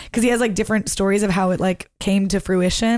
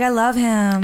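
lightly imitated pop star; slower than usual. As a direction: show how the star talks, lightly. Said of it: "She talks like this".

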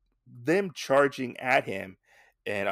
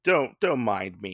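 dismissive brush-off; 5 semitones higher, 5 dB louder than usual. Retold or imitated. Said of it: "Jay's like".

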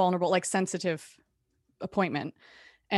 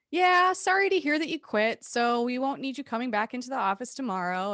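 high mock-sorry boss; 6 semitones higher than usual. Boss insisting she quit, high mock voice. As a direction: imitate a falsely sorry boss. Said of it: "What? What?".

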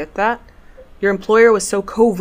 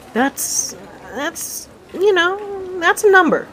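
stunned by the sum; 12 semitones higher, much slower than usual. Acted. Courier reacting to two thousand denarii, rising amazement. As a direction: let the amazement build.

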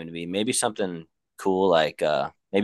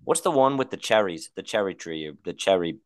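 lightly put-on British; British accent; 4 semitones higher than usual. Asking friends for a game name, mock British. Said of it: "we have to talk in a British accent".

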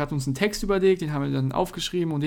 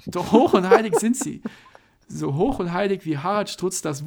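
mock trailer narrator; dramatic movie trailer read; disguised deep voice; 4 dB louder than usual. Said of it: "mit verstellter Stimme".

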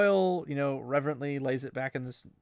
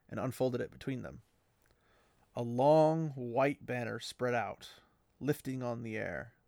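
story narration. Acted. Fan reads the banner reveal aloud, reverent narration. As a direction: read it with awe, measured and even. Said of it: "I'm gonna read this next part".

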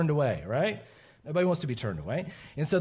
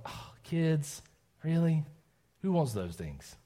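acted weary disdain; 4 dB quieter, slower than usual. Adult seeing kids as a burden, weary mock disdain. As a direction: grumble as if kids were a burden. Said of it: "kids are seen sometimes as a burden".

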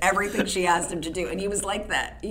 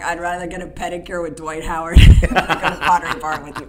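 laughing; 10 dB louder than usual. Retold or imitated. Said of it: "Barkley wrote back".

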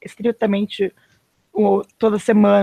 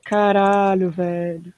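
sore muscles; 4 semitones lower, much slower than usual. Real, not acted. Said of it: "Evita certas posições".

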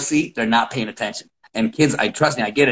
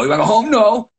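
scolding; 9 semitones higher, 4 dB louder than usual. Retold or imitated. Coach scolding kids.

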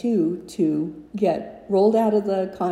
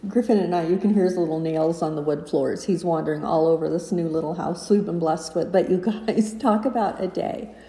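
stairwell echo. Real, not acted. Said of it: "can you hear the echo in here".

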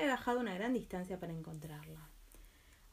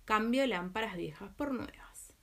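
street vendor's cry; slower than usual. Acted. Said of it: "salió a la calle pregonando".

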